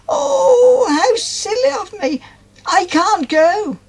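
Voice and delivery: high, breaking with dismay; dismayed cry. A narrator's reading. Molly realising she cannot go, crying. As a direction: sob out the realisation, slowly at the end. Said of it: "she remarked".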